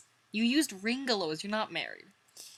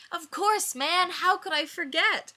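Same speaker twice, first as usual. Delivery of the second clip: Chandler voice; 11 semitones higher, 6 dB louder than usual. Acted.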